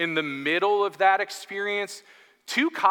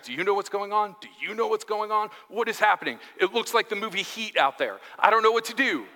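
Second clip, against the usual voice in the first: higher-pitched frantic neighbours; mock alarm; 4 semitones higher, faster than usual. Neighbours texting each other about police outside, mock alarm. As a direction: lightly play up the neighbourhood panic.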